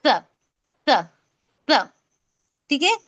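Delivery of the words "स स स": स as th in "think"; lisped स, isolated and repeated; tongue-out स. Shown as a demonstration. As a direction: say स with the tongue tip just past the upper teeth. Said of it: "जुबान बाहर निकाल के".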